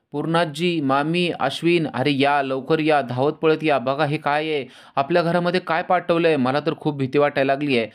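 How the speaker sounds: high-pitched, urgent calls for help, not fully shouted; staged outcry. A narrator's reading. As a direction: call the household running with a put-on panic, pitched well up. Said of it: "तिने आरडाओरडा करायला सुरुवात केलेली आहे". (खोटा घाबरलेला आरडाओरडा, उंच सुरात)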